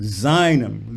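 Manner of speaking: "seinem" with a long, weighted first syllable; lean on SEI. Shown as a demonstration. Coach teaching singer word stress, "seinem" leaning on "sei". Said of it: "lean on the sei".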